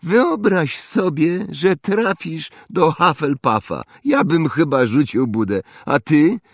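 high, loud bragging schoolboy; spoiled boasting boy. Acted. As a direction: show off like a rich brat. Draco boasting. (chłopiec przechwala się, wysoko i głośno)

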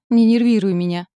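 wife snapping at her husband in labour; irritated shout. A narrator's reading. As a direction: bark it at him in nervous anger. Wife snaps at groaning husband.

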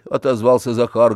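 plain reading voice

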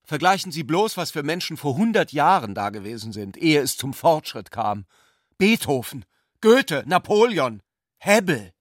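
a brash student talking down to his elders; scornful young zealot. A narrator's reading.

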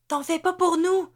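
high, loud moaning plea; whimpering cry. A narrator's reading. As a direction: cry it out, near breaking. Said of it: "gémit Ruby".

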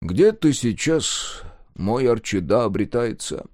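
saddened. Acted. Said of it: "Снова погрустнел, закручинился".

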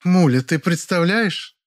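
stretched excited cry; exclaiming. Acted. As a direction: burst in with news. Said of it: "воскликнула она".

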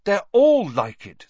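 high, loud and slow in despair; desperate. A narrator's reading. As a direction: plead it, near tears. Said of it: "said Hermione desperately".

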